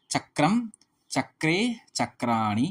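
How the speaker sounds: slow, deliberate chanting of forms; slow recitation. Shown as a demonstration. Teacher reciting Sanskrit noun forms to students, slowly. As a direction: spell out each form slowly for students.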